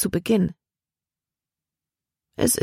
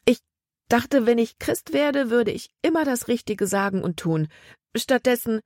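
put-on a girl confessing to her grandmother through rising tears; tearful plea; 6 semitones higher than usual. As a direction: hold back tears as the words tumble out. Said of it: "Als sie zu weinen begann".

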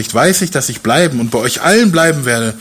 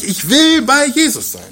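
higher voice, will pressed hard; Paul's strong emphasis; 10 semitones higher than usual. Retold or imitated. Preacher voices Paul longing for Jesus, will stressed high. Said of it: "Eine sehr deutliche Betonung".

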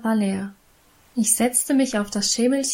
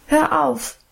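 put-on sharp, higher child's snap; unruly outburst; 5 semitones higher than usual. A narrator's reading. Little girl cutting off the older girl's Bible reading, defiant and higher. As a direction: cut her off with a defiant child's cry. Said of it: "fuhr ich ungebärdig dazwischen".

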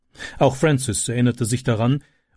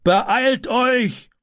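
much higher, urgent man's call; neighbour calling; 11 semitones higher than usual. A narrator's reading. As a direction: rush the helpers along. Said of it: "rief er".

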